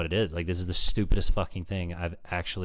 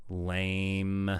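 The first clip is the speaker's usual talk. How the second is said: bored heckle. Real, not acted. Heckles the clip with one word.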